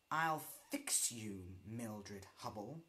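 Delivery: cackling. Acted. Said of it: "she cackled to herself".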